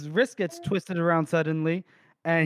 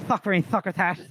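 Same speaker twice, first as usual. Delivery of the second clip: swollen-lipped lisp. Retold or imitated. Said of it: "his lips were swollen".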